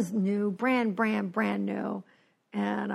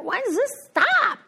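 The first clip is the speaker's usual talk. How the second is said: high, louder anguished cry; desperate high plea; 12 semitones higher, 4 dB louder than usual. Retold or imitated. Alcoholic craving drink cries out in high desperation. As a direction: beg for it to end, up high. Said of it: "It was like".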